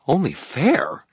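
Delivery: high, loud fairy indignation; outraged fairy. A narrator's reading. Fairy spits back at the wizard, outraged. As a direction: spit it back, high and offended. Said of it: "Toot spat, outraged".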